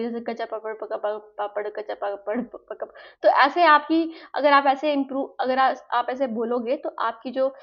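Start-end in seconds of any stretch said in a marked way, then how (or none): 0.2-2.9 "कच्चा पापड़, पक्का पापड़" repeated quickly, stumbling and tripping over the words; repeated tongue twister. Shown as a demonstration. Teacher demonstrates repeating it fast until stumbling. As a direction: rattle it off again and again until the tongue slips. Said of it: "दोबारा दोबारा बोलोगे".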